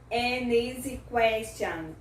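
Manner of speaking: AN EASY slowly joined as 'an-neasy'; slow demo carrying N into EASY; linking sound. Shown as a demonstration. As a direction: link AN to EASY, drawn out for learners. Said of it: "fazer um linking sound na palavra seguinte".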